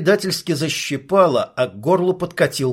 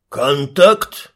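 louder, a mild bark; barked alert; 5 dB louder than usual. Acted. First soldier barking a contact alert into radio. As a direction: snap out the alert. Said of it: "гаркнул первый".

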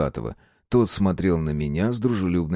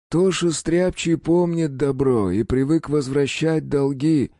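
smirking; 7 semitones higher, slower than usual. A narrator's reading. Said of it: "усмехнулся усатый".

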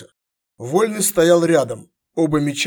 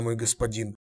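hesitant stammer; 4 semitones lower, 9 dB quieter than usual. Acted. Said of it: "заикнулся Фес".

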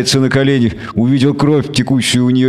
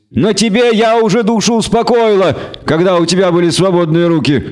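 higher, cold and scornful; scornful elf woman; 7 semitones higher than usual. A narrator's reading. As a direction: throw his past defeat back at him.

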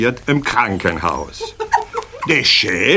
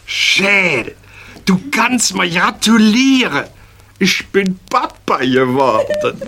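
bright, proud announcement, pitched higher; cheerful; 6 semitones higher than usual. Acted. Dünnes proudly telling Schäl he's a father, cheerful and high. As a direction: tell the news gleefully, higher up. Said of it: "sagt dem ganz fröhlich".

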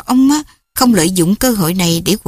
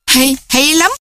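sarcastic father; 6 semitones higher than usual. Acted. Father mocks angrily.

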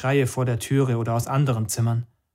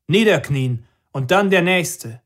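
higher, louder, slow commanding voice; 5 semitones higher, 5 dB louder, slower than usual. Acted. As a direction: spell out the order heavily. Commander orders.

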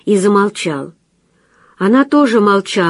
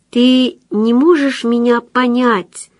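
slow, higher, despairing plea; 5 semitones higher, slower than usual. A narrator's reading. Anna pleading with the young man in despair. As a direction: ask it with despair in the voice. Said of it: "с отчаянием в голосе".

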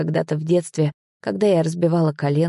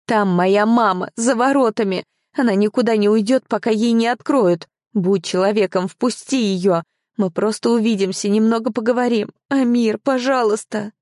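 urgent plea; 4 semitones higher than usual. Acted. Girl pleading for her mother.

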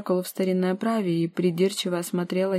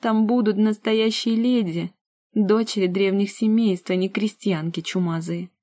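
contemptuous; 3 dB louder than usual. Acted. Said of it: "презрительным взглядом".

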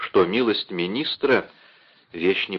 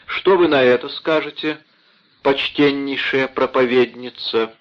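mocking; 3 semitones higher than usual. Mocking his wife with money.

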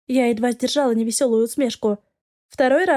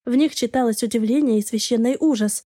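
plain reading voice

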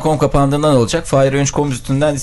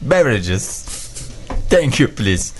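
mock public announcement; 2 semitones higher, much slower than usual. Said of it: "Bunu İngilizce söyler misin".

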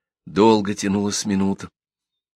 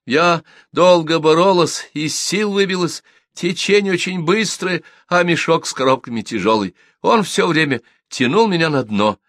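tearful; 8 semitones higher, 3 dB louder than usual. A narrator's reading. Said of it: "сквозь слёзы рассказывала мне Наденька".

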